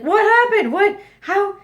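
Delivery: high, loud panicked questions from husband; husband shocked to find her crying, high loud alarm. Retold or imitated. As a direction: fire off frantic questions like a startled husband. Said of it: "and he's like".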